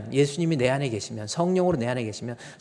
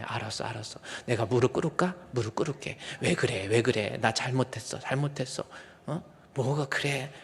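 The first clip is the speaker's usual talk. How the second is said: gentle giving in; 4 dB quieter than usual. Retold or imitated. Now gentle yielding to wife.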